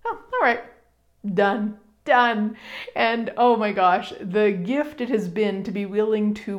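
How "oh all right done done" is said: mild retold relief. Letting go of the bragging worry, mildly relieved. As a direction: let it go lightly. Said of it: "it was like".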